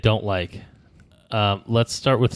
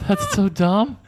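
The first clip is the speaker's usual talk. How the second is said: laughing; 9 semitones higher, much slower than usual. Real, not acted. Reacting to silly pun.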